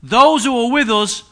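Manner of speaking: the prophet steadying his panicking servant, loud and slow; bold proclamation. Retold or imitated. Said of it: "the prophet answered".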